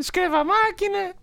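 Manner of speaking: squeaky high comic voice; high character voice. Acted. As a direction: say it in a silly high voice.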